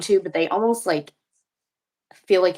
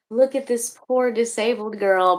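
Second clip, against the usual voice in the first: mock pity; 4 semitones higher than usual. Mimicking people showing her off pityingly.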